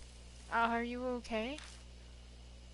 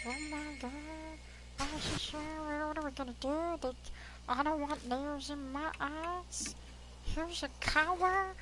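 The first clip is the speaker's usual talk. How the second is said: squirrel voice; 3 semitones higher than usual. Acted. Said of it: "This is my squirrel voice".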